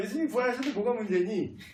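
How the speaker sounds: fast sarcastic mocking jab.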